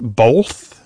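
"both" said as "bolth"; L sound in "both". Shown as a demonstration. Radio host asks caller about her pronunciation, "both" with an L. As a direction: put an L before the TH in "both". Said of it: "with an L sound in it".

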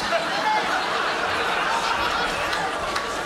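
a long, high, airless cackle at the punchline; high wheezing laugh. Real, not acted. Teller laughs at his own punchline, long wheezing cackle. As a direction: let real laughter take over.

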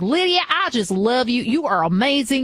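lightly imitated Southern gushing; playful Southern accent impression; thick Southern accent. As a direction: gush like a Southern fan. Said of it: "with the really thick Southern accent".

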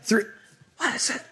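high, rambling pilot on the cabin intercom; airline captain announcement. Acted. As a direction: play a clueless captain addressing the passengers. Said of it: "if he sounds like that".

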